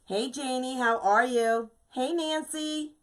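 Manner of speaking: bright greeting. Real, not acted. Greeting viewers arriving in chat.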